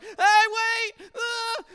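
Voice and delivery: hammed-up desperate shout; calling out. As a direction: holler at the departing bus. Calling after the bus.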